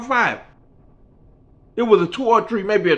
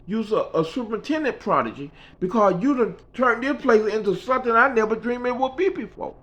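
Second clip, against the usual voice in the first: Mickey's voice; 9 semitones higher than usual. Retold or imitated. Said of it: "She said".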